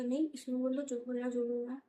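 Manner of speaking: rude demand. Retold or imitated. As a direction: push the doctor into talking on camera. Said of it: "इतनी ऊंची आवाज़ से गालियाँ". (बदतमीज़ी से ज़ोर देकर बोलना)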